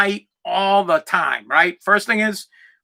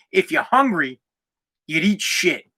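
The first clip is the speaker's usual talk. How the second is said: deadpan. Retold or imitated. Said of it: "deadpan, no emotion".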